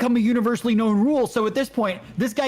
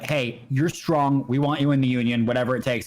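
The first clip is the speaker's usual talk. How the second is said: recruiter voice; 6 semitones lower than usual. Retold or imitated. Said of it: "He's like".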